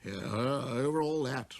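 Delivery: proud king summoning a visitor; king's command. Acted. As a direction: call him closer with pride. Voices the king.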